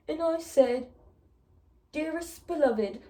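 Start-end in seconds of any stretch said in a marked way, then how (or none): 1.9-3.0 mock formal reading. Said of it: "oh, almost".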